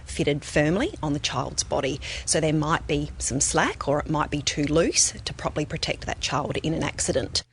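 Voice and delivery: ordinary talk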